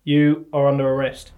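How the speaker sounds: mock policeman gone Australian; Australian-accented arrest announcement. Policeman arresting the suspect, Australian accent. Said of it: "I have gone Australian".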